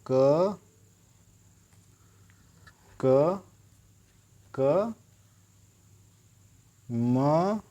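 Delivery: single letters said apart with pauses; spelling lotus. Shown as a demonstration. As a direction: break the word into letters. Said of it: "लोटस को हम बोलते हैं". (अक्षर अलग-अलग रुककर बोलना)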